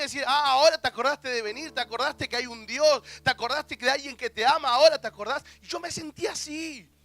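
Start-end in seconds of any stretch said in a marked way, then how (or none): 0.3-5.4 louder and louder, scornful; mock scolding rising in volume; accusing taunt. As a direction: throw the reproach back at him. Accusing thought voiced, building.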